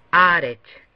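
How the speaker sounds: "Haaretz" said loud and clear, stressed on "retz", falling at the end; Hebrew pronunciation demo. Shown as a demonstration. Teacher models "Haaretz" for students, stress on last syllable. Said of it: "se pronuncia de la siguiente manera".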